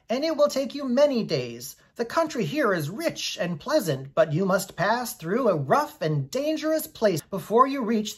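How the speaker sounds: a kindly little man cautioning a traveller; Boq, grave Munchkin. Acted. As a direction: Munchkin host warning Dorothy of danger, gravely. Boq warns about the road.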